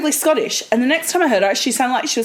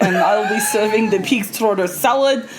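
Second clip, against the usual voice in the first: mock Russian guide; 2 semitones lower than usual. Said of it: "you can eat their food".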